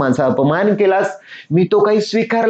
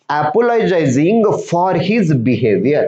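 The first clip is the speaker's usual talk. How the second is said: each English word read slowly and clearly to pupils; slow reading of the story; much slower than usual. Shown as a demonstration. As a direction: read the line word by word for the class. Teacher reads story text slowly. (मुलांना सावकाश वाचून दाखवणे)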